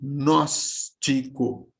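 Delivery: gnóstico said slowly with an inserted i, gi-nós-ti-co; slow demo of gnóstico as gi-nós-ti-co; spoken syllable split. Shown as a demonstration. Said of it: "eu acabo pronunciando aqui".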